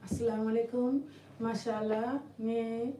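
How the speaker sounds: softly imitating a demure Muslim wife. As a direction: play the meek, careful wife. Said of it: "talk slow. Just only say".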